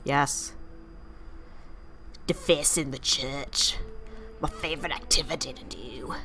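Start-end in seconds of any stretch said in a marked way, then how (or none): 2.3-6.2 light mock British accent; a hint of posh British accent. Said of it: "I've been doing a weird British accent".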